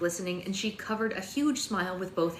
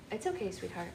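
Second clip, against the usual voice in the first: soft soothing; 7 dB quieter than usual. Real, not acted. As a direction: murmur it softly to calm her. Soothing crying baby quietly.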